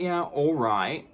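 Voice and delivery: mock agreement, a hint of contempt; sarcastic. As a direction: drag it out with scorn. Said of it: "And I was like".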